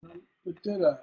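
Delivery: chanted beat ending weakly on "da"; stressed then unstressed "da, da"; unresolved feminine ending. Shown as a demonstration. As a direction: leave the last "da" dangling. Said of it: "how I'm creating tension".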